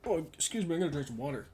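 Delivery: talking through hiccups; interrupted by hiccups. Real, not acted. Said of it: "God, hiccups".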